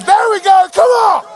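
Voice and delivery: loud high crowd cheer; rallying shout. Real, not acted. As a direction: whip the crowd up. Urging crowd to sing.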